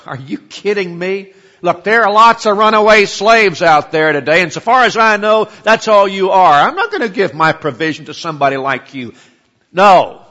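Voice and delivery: loud, harsh, high-pitched scorn; curt and harsh. Retold or imitated. Nabal shouting scorn back at David's messengers, loud and harsh. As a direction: bark it at him like an insult. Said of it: "Nabal's response was curt and harsh".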